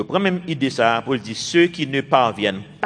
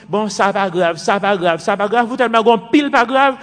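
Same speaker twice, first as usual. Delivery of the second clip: building emphasis; 7 semitones higher, 6 dB louder than usual. Acted.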